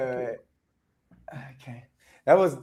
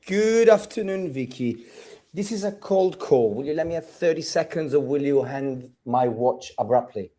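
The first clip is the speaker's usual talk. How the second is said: Jon Snow, depressed; 6 semitones lower, 3 dB quieter than usual. Acted. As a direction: drag it out, dropping low and soft. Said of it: "I'm gonna be depressed".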